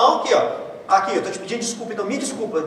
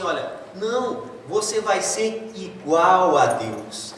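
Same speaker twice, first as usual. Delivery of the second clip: tempting serpent; much slower than usual. Retold or imitated. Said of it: "a serpente fala assim".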